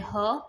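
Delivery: ह as a short breathed "huh"; beginning sound. Shown as a demonstration. Teacher giving the beginning sound to learners, sound demonstration. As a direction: say ह as h plus a short vowel. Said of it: "beginning इसका sound होता है".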